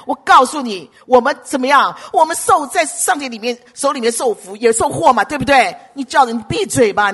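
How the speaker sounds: acted husband's loud rebuke of his wife; mock-indignant scolding, raising the voice. Acts out Job rebuking his wife. (模仿丈夫大声斥责妻子)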